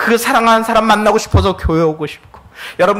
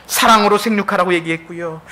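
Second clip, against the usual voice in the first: usual speaking voice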